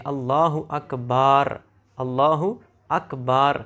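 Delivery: اللہ اکبر with akbaar, a long alif after the b; slow اللہ اکبر, stretching the b into baa, the wrong way; wrong long a in akbar. Shown as a demonstration. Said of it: "یعنی با کے بعد الف پڑھتے ہیں". (اللہ اکبر میں با کے بعد الف کے ساتھ غلط تلفظ)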